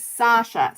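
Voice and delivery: Sasha stretched out as SAH-sha; careful name pronunciation. Shown as a demonstration. Settling on a viewer's name, Sasha said SAH-sha. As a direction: say Sasha slowly with a long "ah". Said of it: "can't figure out which one is which".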